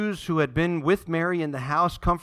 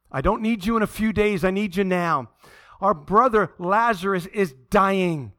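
urgent, raised plea; crying out to God; 3 semitones higher, 4 dB louder than usual. Acted. Sisters beg the Lord for their dying brother, urgent plea. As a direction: plead insistently, leaning on the key words. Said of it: "you crying out to the Lord".

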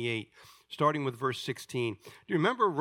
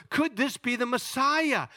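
excited proclamation; 10 semitones higher, 4 dB louder than usual. Acted. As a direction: call out the amazed question to the town. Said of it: "with such excitement and says".

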